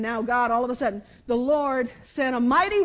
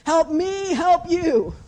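raised, louder pleading movie line; movie quote; 5 semitones higher, 8 dB louder, much slower than usual. Retold or imitated. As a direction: plead it loudly like the film. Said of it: "when he looks at him and says".

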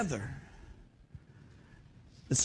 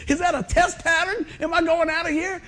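dazed by medicine; 9 semitones higher, 4 dB louder than usual. Retold or imitated. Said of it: "I said".

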